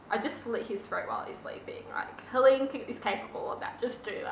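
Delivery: sly unvoiced whisper. Real, not acted. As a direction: hush it like a secret plan. Conspiratorial murder suggestion.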